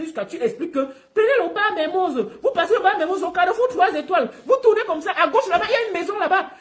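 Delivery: high-pitched mocking imitation; thin high voice. Mimicking the rival recalling directions round the quartier, thin high voice. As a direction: keep up the mock high, thin voice. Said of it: "La voix est trop fine".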